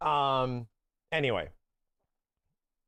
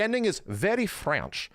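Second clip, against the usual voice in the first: hint of a mock French accent on "very French"; playful bad French accent, stretching "French"; 6 semitones higher than usual. Streamer calls game's ending very French, mock French accent. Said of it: "that's my French accent, chat".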